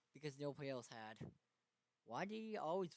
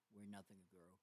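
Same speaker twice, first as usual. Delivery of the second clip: much softer, drifting away; soft fading echo; 4 semitones lower, 9 dB quieter than usual. A narrator's reading. Narrator repeating the bleak line as a soft fading echo. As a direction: let the phrase die off like an echo.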